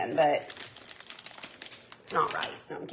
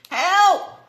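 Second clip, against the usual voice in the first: mock help cry; 8 semitones higher, 8 dB louder than usual.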